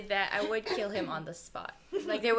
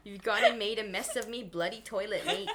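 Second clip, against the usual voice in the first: put-on a giggly, lightly done Irish accent; amateur Irish accent through laughter. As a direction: retell it in a jokey Irish brogue. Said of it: "The Irish accent".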